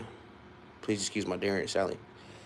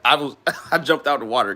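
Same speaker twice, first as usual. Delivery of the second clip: real laugh breaking into the words, pitched up; 5 semitones higher, 6 dB louder than usual. Real, not acted. Admitting to viewers the jump in the water, laughing. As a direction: tell it through a laugh, louder and higher.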